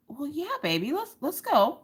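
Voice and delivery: high, gentle comforting voice; retold motherly soothing. Mom agrees to take tearful daughter home, retold soothing.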